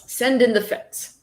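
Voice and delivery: slow, mock-serious bad British accent; lightly put-on British accent drifting Australian. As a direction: read it in a hammy fake British accent. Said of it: "in my worst British accent".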